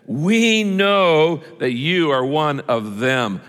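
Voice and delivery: slow, weighted accusation; pointed accusation. Acted. Bystanders confront Peter in the courtyard, slow pointed accusation. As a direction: draw out each word, accusing.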